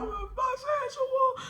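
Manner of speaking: hint of the yell, drawn out; retold yell. Retelling her blurted confession, high and drawn out. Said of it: "I just yelled out".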